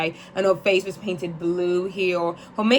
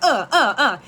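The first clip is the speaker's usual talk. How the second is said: repeated Brooklyn-style grunts, pitched higher; Brooklyn talk; 3 semitones higher, 4 dB louder than usual. Retold or imitated. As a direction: imitate Brooklynites with punchy, louder grunts. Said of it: "they kinda go like".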